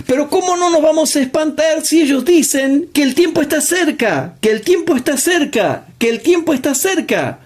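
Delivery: high, fast, incredulous preaching; excited preaching. Acted. Preacher's incredulous rhetorical question. (predicación exaltada y aguda)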